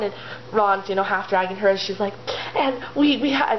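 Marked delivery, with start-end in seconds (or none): 2.5-3.5 higher, eager lecturing; passionate enthusiasm. Acted. Hermione lecturing her bored friends on elf rights, enthusiastic. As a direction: launch in eagerly, pitch lifted. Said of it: "talking so enthusiastically and with so much passion".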